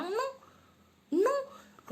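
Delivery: sharp high no. Acted. Emphatic refusal.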